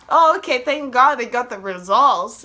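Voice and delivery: acted relief. Patient hearing that results are in, acted loud relief. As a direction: burst out with exaggerated relief.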